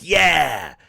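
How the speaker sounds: loud, high cheer dropping into a whoa; acted fan whoop turning bewildered; mock excitement. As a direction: cheer like a fan, then falter. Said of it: "you're like".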